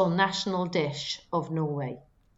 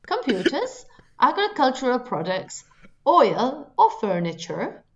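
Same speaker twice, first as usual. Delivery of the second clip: put-on laughing through a Norwegian accent; listing the answers in a Norwegian accent; 4 semitones higher, 3 dB louder than usual. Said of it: "Don't laugh at my accent".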